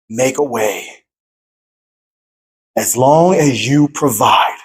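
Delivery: slow, low pledge to God; earnest vow. Retold or imitated. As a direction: say yes slowly, low, with pauses between promises. Acting out own yes to God.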